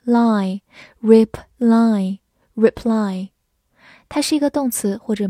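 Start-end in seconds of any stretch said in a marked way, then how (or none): 0.1-3.3 reply stretched out very slowly; slow reading. Shown as a demonstration. Teacher slowly modelling reply for students. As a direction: drag out reply syllable by syllable. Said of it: "R E 发re，P发p，L Y发".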